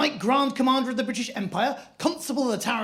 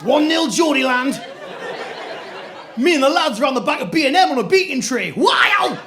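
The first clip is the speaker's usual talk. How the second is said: high, loud triumphant Geordie lad; Geordie accent; 5 semitones higher, 5 dB louder than usual. Retold or imitated. Geordie best friend gloats back at the posh skier in a loud Geordie accent. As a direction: cheer it like a winning goal. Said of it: "he went".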